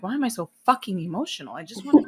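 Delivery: half-laughing frustration with oneself; mock-mad outburst. Mad at herself for being emotional, playfully frustrated. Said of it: "Sometimes I'm mad. I'm like".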